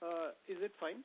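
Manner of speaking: quiet, off-mic voice; barely audible. Real, not acted. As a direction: still faint and distant. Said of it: "Not really".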